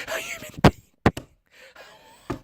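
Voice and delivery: high squeaky laughing repeat. Real, not acted.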